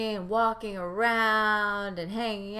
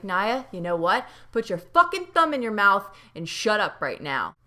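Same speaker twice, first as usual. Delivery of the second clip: annoyed scold; 4 dB louder than usual. Retold or imitated. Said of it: "I was like".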